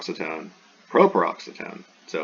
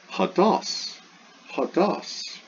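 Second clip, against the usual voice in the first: "Hados" pitched high, lifting on the last syllable; acute on the ultima; 11 semitones higher, much slower than usual. Shown as a demonstration. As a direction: demonstrate "Hados" with the accent on DOS. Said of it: "So it's got an acute".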